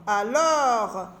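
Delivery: "Alors" said in two distinct, held syllables. Shown as a demonstration. Teacher showing children two syllables, "Alors" carefully divided. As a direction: separate and hold both syllables of "Alors". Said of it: "j'ai deux syllabes".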